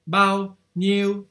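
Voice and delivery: bao slow and high, niu high, both level. Shown as a demonstration. Teacher shows the unmarked level tone. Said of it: "quand il n'y a pas de ton, c'est un ton".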